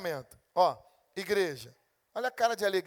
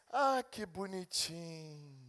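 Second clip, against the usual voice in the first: soft, slow cooing; lightly voiced doting parent; 2 semitones lower, 5 dB quieter, much slower than usual. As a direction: coo over the toddler's slap fondly. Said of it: "e você disse".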